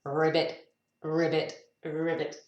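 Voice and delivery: lightly voiced frog ribbits; frog croak. Reader showing a green frog, lightly croaking. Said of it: "It's a green frog".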